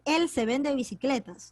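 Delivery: "Él" stressed as a wrong example. Shown as a demonstration. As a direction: push "Él" to show it doesn't fit. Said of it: "tú no puedes decir". (acento en "Él", ejemplo incorrecto)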